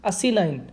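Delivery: asinine said as अस्सी नाइन, eighty nine; teacher breaking asinine into अस्सी नाइन for memory; split into Hindi words. Shown as a demonstration. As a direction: say अस्सी then नाइन as two Hindi numbers. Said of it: "इसको ऐसे pronounce कर रहा हूँ".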